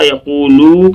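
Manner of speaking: یقولو with a lengthened final loo; wrongly stretched ending. Shown as a demonstration. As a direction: show the mistake by dragging the end of یقولو. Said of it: "لو کھنچ جائے گا".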